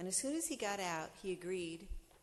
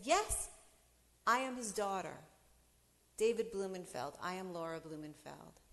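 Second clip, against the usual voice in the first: loud, proud, claiming her name; defiant declaration; 4 dB louder than usual. Retold or imitated. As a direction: stand tall and announce it. Defiant reply to the judge.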